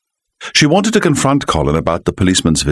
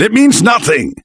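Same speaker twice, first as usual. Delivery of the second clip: higher, a touch louder denial; narrated shout; 3 dB louder than usual. A narrator's reading. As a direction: insist hard, half shouting. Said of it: "he shouted".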